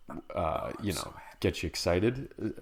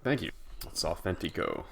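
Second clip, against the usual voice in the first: hammed-up Italian; 5 dB quieter than usual. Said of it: "Chef Boyardee you think is supposed to sound like".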